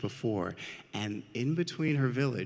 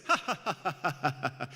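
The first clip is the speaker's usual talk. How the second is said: high staccato performed ha-ha-ha; mock laughter; 4 semitones higher, faster than usual. Shown as a demonstration. Storyteller shows children how the trees laughed, mock laughing. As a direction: demonstrate the trees' taunting laugh. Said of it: "They were laughing like this".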